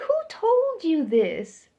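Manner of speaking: loud, slow and high; loud, slow question to a coworker, shocked; shocked demand. Retold or imitated. Demanding source of the insult.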